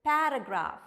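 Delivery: "paragraph" as PARA-graaf, first syllable punched; model pronunciation. Shown as a demonstration. Teacher reading the next word, emphatic model pronunciation. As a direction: say "paragraph" carefully, ending in F. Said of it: "how do you read this?".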